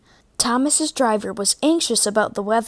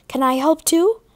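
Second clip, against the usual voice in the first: Percy's voice; 7 semitones higher than usual. A narrator's reading. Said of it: "asked Percy".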